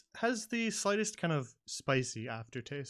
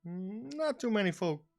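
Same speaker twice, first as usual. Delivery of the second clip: southern innkeeper; 3 semitones higher than usual. Acted. Innkeeper figure.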